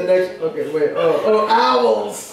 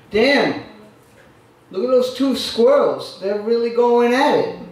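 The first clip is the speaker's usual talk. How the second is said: poet guy's voice; 3 semitones higher than usual. Acted. A lightly done poet voice reciting his nature poem, indignant. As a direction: read the poem as the odd poet character, ranting at squirrels. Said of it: "this guy who talks like this".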